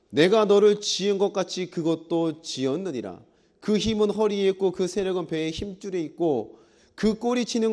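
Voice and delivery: measured, chanting-like Bible recitation; scripture reading. Acted. Pastor reads God's description of the beast, scripture reading. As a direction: read the verses out in long, even phrases.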